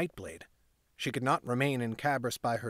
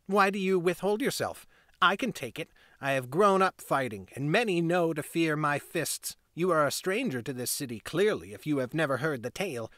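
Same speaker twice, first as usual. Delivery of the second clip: put-on boastful boy. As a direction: puff up like a little tough. Boy's boastful challenge.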